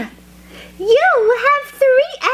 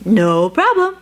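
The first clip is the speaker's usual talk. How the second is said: birds' reply; 12 semitones lower than usual. Acted. Birds answer the elephant.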